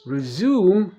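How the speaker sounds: resume said the American way; American resume, with a plain ZOOM; American pronunciation. Shown as a demonstration. Teacher showing learners how Americans say resume, American accent. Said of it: "دي أمريكان".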